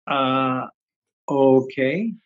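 hesitant, questioning retold okay; doubtful agreement. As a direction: go along with it, unconvinced. Retelling doubtful reply to teacher.

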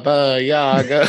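slow, eerie witch intoning; spooky witch name. Acted. Intones the witch's name, cackle follows.

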